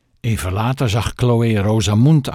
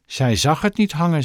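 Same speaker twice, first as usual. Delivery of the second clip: higher-pitched, deliberate stress on "Zij zag het niet hangen"; slow and emphatic; 6 semitones higher than usual. A narrator's reading. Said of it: "traag en nadrukkelijk". (traag en nadrukkelijk: "Zij zag het niet hangen")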